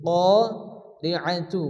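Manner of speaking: "কারিআতু" slowly, the alif held long; slow, careful "কারিআতু"; tajweed demo. Shown as a demonstration. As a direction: stretch the alif of "কারিআতু" for one alif length. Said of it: "এক আলিফ পরিমাণ টান দিয়ে পড়তে হবে".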